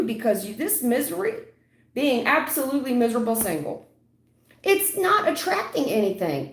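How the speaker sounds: worked-up tough-love rant; heated lecture. Real, not acted. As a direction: really lay into her, voice up. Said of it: "And I'm not trying to yell at you".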